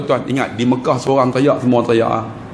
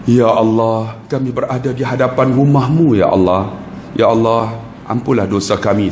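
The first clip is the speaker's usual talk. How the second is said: solemn supplication; 4 semitones lower than usual. Retold or imitated. Ustaz leading pilgrims before the Kaabah, solemn supplication. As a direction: lead the group in humble prayer.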